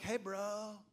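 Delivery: laid-back California drawl; California bro. Acted. Holy Spirit greets the preacher, as a California bro. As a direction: imitate a chilled Californian dude. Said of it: "he talks like he's from California".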